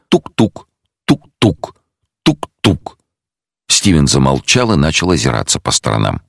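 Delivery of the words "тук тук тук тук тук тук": knocking sound said aloud; imitated knocking. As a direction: tap out the knock with the voice. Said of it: "послышался негромкий стук".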